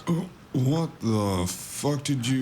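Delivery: shocked. Acted. Injured stranger to the marshal, a shocked, startled outburst. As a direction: blurt it out in disbelief.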